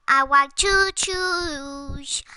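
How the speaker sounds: put-on slow stretched baby voice; baby voice changer. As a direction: drawl it out through the filter. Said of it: "doing the baby voice".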